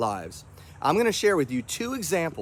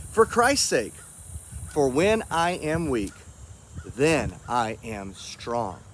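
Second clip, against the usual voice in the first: scripture reading. Acted.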